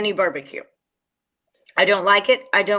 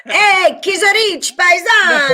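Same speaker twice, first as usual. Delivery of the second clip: loud, high hammed-up Italian dad; dad pretending to be Italian, loud mock Italian accent; fake Italian; 8 semitones higher, 4 dB louder, slower than usual. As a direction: ham up a fake Italian greeting. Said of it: "My dad does the same thing".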